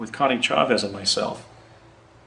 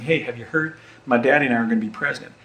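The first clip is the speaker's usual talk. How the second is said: mock proud young Texan, rushed; a second, more committed take; imitating young George W. Bush; faster than usual. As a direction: brag it table to table, fast. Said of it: "That was what I was going for there".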